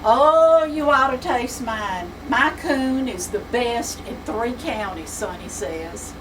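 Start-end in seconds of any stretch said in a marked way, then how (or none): 0.0-5.1 proud boast. Acted. Sonny boasts about his coon.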